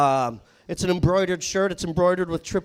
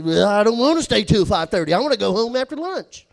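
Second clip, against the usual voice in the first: loud, higher redneck whine; Jacob's redneck protest; 4 semitones higher, 8 dB louder than usual. Retold or imitated. Coworker refusing to stay till five thirty, loud redneck whine. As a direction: protest like a sulky redneck juggalo. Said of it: "like a shitty redneck juggalo".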